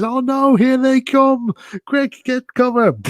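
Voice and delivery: very high, loud, panicked Wallace cry. Retold or imitated. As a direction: yelp it as the pigeons swoop in. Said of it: "and he says".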